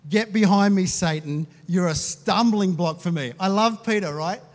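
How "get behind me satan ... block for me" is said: loud, forceful command; stern rebuke. Acted. Jesus rebuking Peter in front of him, loud and stern. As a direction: punch it out with raised volume.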